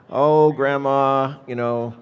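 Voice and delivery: lightly acted grandson begging for help; pleading grandson. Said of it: "she gets a call and it's grandson".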